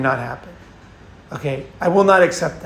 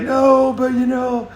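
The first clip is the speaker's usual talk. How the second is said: much higher mock girl's voice; a light take on the girl at the door, raised high; imitating upset girl; 7 semitones higher than usual. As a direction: put on the tearful girl's pleading pitch. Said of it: "she's like".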